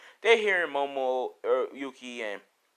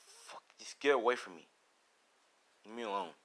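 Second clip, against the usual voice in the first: mildly menacing, hushed; soft, weary push-away; cold rejection; 2 semitones lower, 8 dB quieter than usual. Acted. Deku rejects her again.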